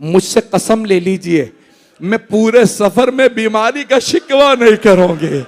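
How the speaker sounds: a hint of a small girl's voice, rising at the end; lightly voiced daughter begging her father; gentle voice of a sick girl to her father; sick daughter pleading. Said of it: "कहते जनाब फातिमा सुगरा के".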